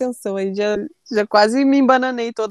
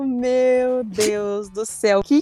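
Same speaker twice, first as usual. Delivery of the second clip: stunned disbelief; slower than usual. Retold or imitated. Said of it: "eu boto as mãos na cabeça".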